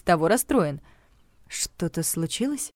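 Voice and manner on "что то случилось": soft, slow, careful question; cautious. A narrator's reading. Heroine asks her upset friend, cautiously soft. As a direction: tread gently, testing the waters. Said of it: "спросила я осторожно".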